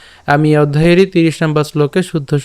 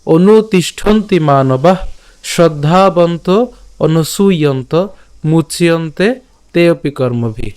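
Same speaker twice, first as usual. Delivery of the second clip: slow, chanted full verse, a little raised; teacher reciting the shloka for the class; slow Sanskrit recitation; 2 semitones higher, slower than usual. Shown as a demonstration. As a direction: recite the whole shloka slowly once more. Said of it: "আমি আবার বলছি".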